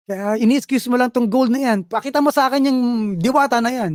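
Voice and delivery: a touch of jealous anger; angry wife. Retold or imitated. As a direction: challenge him to show the fairy. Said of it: "galit yung asawa niya".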